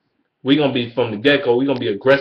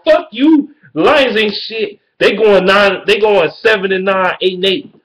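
high, loud furious outburst; real rage at Vikings fans, pitched way up and louder; angry yell; 7 semitones higher, 4 dB louder, slower than usual. Real, not acted. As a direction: shout down the rival fans. Furious rant at rival fans.

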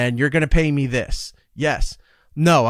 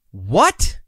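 slow, rising "for the shift?" then a loud high "yeah"; incredulous disbelief; 8 semitones higher, 5 dB louder, much slower than usual. Retold or imitated. Radio host hearing the pay per shift, stunned and incredulous. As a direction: play the disbelief of someone offered pennies.

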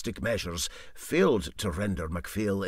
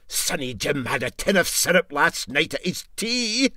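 hopeful; 7 semitones higher, 5 dB louder than usual. Acted. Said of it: "said the engineer hopefully".

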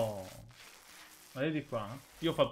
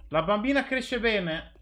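higher, louder and slower proud proclaim; proud exclamation; 8 semitones higher, 7 dB louder, slower than usual. Real, not acted. Gamer proudly announcing to viewers the baby grows well. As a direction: proclaim it slowly with pride. Repeats, exaggerated.

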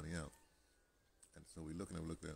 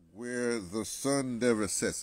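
very slow, loud, raised proclamation; mock-grand slogan; 5 semitones higher, 12 dB louder, much slower than usual. Man reading his stupid t-shirt slogan, mock-grand. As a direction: draw it out like a pompous motto.

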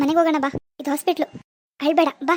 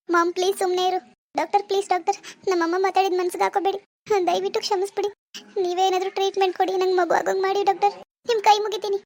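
pleading daughter; 4 semitones higher than usual. Acted. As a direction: beg the doctor humbly. Daughter begs the doctor. (ಬೇಡಿಕೊಳ್ಳುವ ಮಗಳು)

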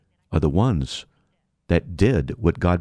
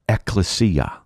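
Ekklesia set apart, "Ek" lightly stressed; first-syllable emphasis; slower than usual. Shown as a demonstration. Preacher answers what the Greek for church is, first-syllable emphasis on Ekklesia. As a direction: lean a little on the opening "Ek" of Ekklesia. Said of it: "pronounce them with a bit of an emphasis on the first syllable".

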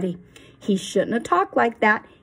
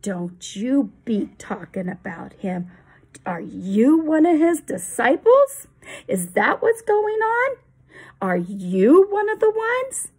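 menacing crowd, rising louder on the questions; hostile threat; 3 semitones lower, 7 dB louder than usual. Acted. The angry crowd threatens Benjamin, loud and menacing. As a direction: threaten the boy.

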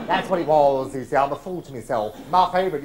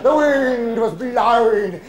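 high, slow, drawn-out mock lament; mock dramatic wail; 5 semitones higher, 5 dB louder, much slower than usual. Old pro recalling the stormy night, hammed-up wail. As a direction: stretch it out like a ghost story.

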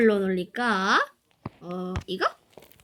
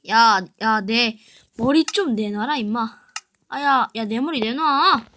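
demanding shout; 6 dB louder, slower than usual. Real, not acted. 친구에게 투구 돌려달라 조름.

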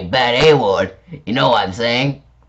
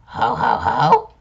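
evil laugh; 3 semitones higher, slower than usual. Pretend. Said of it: "It's my evil laugh, scary, right?".

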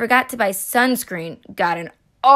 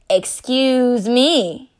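offended; much slower than usual. Acted. Offended cheese, slow.

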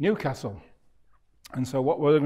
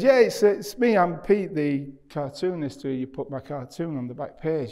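re-enacted eager caller; eager retold introduction; 3 semitones higher than usual. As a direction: act out introducing yourself keenly on the phone. Acting his eager phone introduction.

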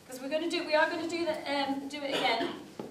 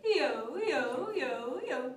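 cradle yo-yo swoops; much slower than usual. Shown as a demonstration. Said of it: "with the cradle one".

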